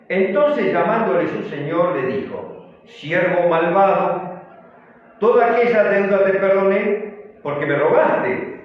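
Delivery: measured, emphatic Bible reading; scripture reading. A narrator's reading. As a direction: read the verse out firmly to the congregation. Reads the scripture verse aloud.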